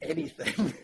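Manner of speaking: laughing it out. Real, not acted. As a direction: says it through laughter. Laughing punchline after quote.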